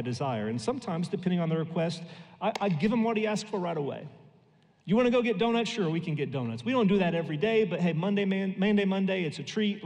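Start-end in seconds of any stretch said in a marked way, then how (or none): 4.8-5.7 bright eager ask, pitched up; child's excited question; eager kid ask. Retold or imitated. Father voicing son's excited ask. 5.7-9.8 playful treat announcement; cheery dad. Retold or imitated. Father answering son cheerfully.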